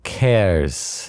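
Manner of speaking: Khers started with a plain breathy k, like "kairz"; learner's soft kh. Shown as a demonstration. Student attempting Khers for the teacher, softened kh. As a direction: say Khers with an English k and a drawn-out ending. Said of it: "sound that you make when you clear your throat".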